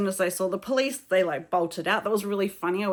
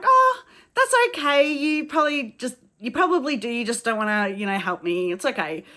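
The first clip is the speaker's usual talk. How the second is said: sarcastic sweetness; 3 semitones higher than usual. Retold or imitated. Tourist tells older locals they just won't help, sweetly sarcastic. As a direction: smile while you twist the knife. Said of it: "went with a big smile on my face".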